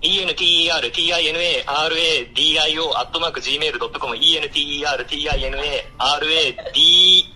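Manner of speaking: tongue-twister race. Real, not acted. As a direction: rattle it off against the clock. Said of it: "早口言葉対決をしたいということで". (早口言葉で一気に)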